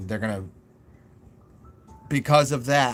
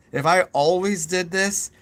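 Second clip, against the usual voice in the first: louder and slower, every word pushed; a hammed-up caps-lock voice; talking in all caps; 3 semitones higher, 5 dB louder, slower than usual. Shown as a demonstration. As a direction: show how tiring nonstop caps would sound. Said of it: "always talking like this".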